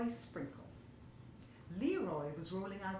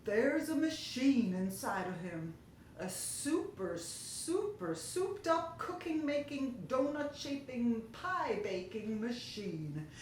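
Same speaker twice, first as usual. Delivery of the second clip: dreadful tones; 3 semitones higher, slower than usual. Acted. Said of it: "In dreadful tones".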